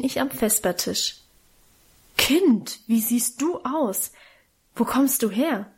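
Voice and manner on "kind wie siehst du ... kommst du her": a touch of shock, slowed on wie siehst du aus; mildly horrified aunt, lightly voiced; aghast. A narrator's reading. Aunt Lydia sees the dishevelled child, mildly aghast. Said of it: "fragte Tante Lydia entsetzt".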